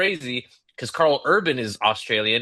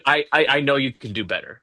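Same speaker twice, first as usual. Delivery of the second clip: encouraging coach; faster than usual. Retold or imitated. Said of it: "Okay, coach".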